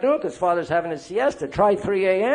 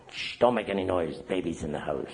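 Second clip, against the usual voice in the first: softer, lower shushing; hushed playing baby; 12 semitones lower, 8 dB quieter than usual. Addict playing baby to manipulate others, hushed and soft. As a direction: hush them like a helpless baby. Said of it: "Play baby".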